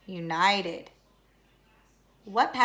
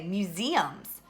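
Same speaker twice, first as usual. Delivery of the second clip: "museums" with the accent on the long E, mu-SE-ums; slow "museums", weight on SE rather than mu; stress on second syllable; 2 semitones lower than usual. Shown as a demonstration. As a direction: lean on the middle syllable of "museums", drawing out the E. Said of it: "that's the accent".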